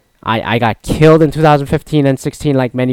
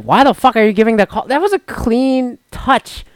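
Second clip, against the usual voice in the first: retold fury; 10 semitones higher than usual. Fan ranting at the referee's call, in mock fury. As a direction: replay the outrage at a bad foul call. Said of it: "I was fucking furious".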